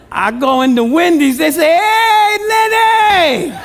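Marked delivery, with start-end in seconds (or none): 1.8-3.5 calling out. Retold or imitated. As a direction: sing his name out like the cashier greeting a regular. Wendy's staff calling his name.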